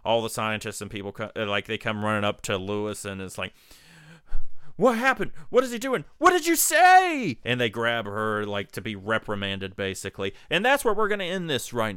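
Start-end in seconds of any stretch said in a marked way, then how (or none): 4.8-7.4 high-pitched mock frantic demands, building louder; hammed-up shouted interrogation; frantic questioning. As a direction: impersonate a crowd pressing for answers. Scientists rush up and question her.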